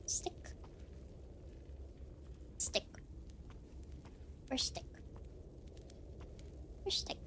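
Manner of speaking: soft, near-whispered caveman grunts; caveman mutter. Pretend. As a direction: hunt for the stick in a hushed caveman voice. Caveman search for stick.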